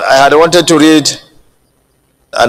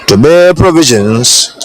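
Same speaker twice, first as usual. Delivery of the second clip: ordinary talk, nothing marked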